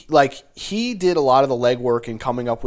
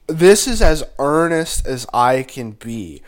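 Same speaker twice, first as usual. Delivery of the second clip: wrestling promo; 4 dB louder than usual. Real, not acted. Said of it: "Mean Gene just holding a mic to you".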